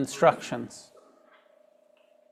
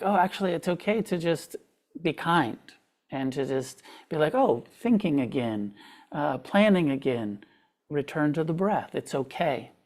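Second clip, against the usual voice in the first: softer, kinder inner voice; encouraging inner voice; 3 dB quieter than usual. Retold or imitated. Teacher showing the kind voice she learned, soft and reassuring. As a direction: coax yourself gently back. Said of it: "an encouragement of like".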